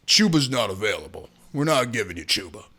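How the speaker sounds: a low, immovable no from the big boss; tough GM voice. Retold or imitated. Voicing Dan Morgan on phone.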